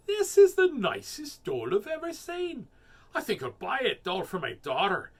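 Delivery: high, loud gushing lady voice; story lady. A narrator's reading. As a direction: gush over it in a high voice. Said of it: "and she said".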